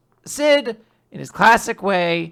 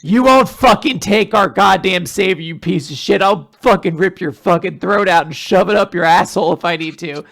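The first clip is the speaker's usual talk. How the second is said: loud mock threats from protective kids; hammed-up tirade, easing off at the end; playfully fierce, punching the swear words; threatening attitude; 5 dB louder than usual. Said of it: "it's the attitude".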